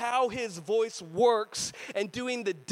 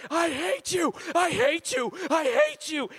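mock yell, higher and a bit louder; playful scream; 6 semitones higher, 3 dB louder than usual. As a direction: yell it in jest at a friend. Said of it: "screamed something".

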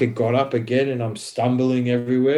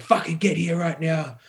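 higher-pitched mock cop command; retold angry order; 6 semitones higher than usual. Cop to the man walking off, angry order. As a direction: imitate an officer ordering someone back.

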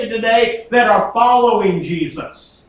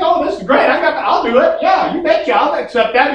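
eager passenger; 4 semitones higher than usual. Retold or imitated. Naive passenger accepting parachute.

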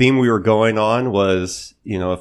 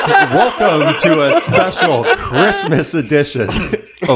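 jolly ho ho ho; 7 semitones higher, 6 dB louder, slower than usual. Acted. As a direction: boom it out like Santa Claus. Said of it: "That was awesome".

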